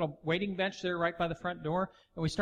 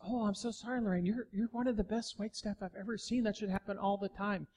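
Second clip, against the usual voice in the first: softer, tender sorry; softer sympathetic reply; gentle apology; 3 semitones higher, 5 dB quieter than usual. Retold or imitated. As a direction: soothe her softly.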